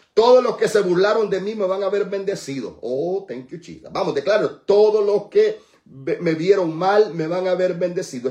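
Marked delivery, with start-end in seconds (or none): 0.1-2.8 loud, high, sustained preaching; raised, forceful proclamation; triumphant declaration. Real, not acted. Preacher declares vindication loudly. 4.6-8.3 loud, high preacher's proclamation; stretched opening, forceful all through; triumphant declaration. Real, not acted. Leads congregation in declaration.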